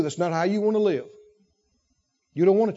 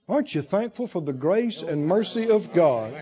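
ordinary delivery

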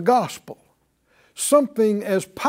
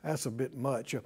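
much softer, sceptical aside; doubtful mumble; 7 semitones lower, 17 dB quieter than usual. Retold or imitated. Preacher voices doubters dismissing good news, soft and sceptical. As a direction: brush it off under your breath. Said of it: "People go".

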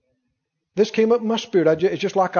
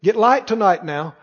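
ordinary talk, nothing marked

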